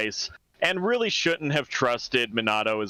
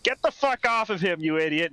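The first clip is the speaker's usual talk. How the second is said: higher-pitched mock outburst; angry grandpa quote; 6 semitones higher than usual. Grandpa to Minato jumped on by girl, mock angry. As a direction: scold like an angry grandpa, played for laughs.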